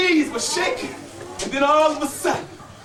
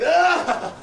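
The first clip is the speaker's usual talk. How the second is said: effortful grunt; 4 semitones higher than usual. Acted. Storyteller acts the boy's mighty thrust, effortful cry. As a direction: heave it out with all your might.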